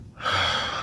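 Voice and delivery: long voiceless exhale; sigh. Real, not acted. Streamer sorry for crying on live, long sigh. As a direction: breathe out hard to steady yourself.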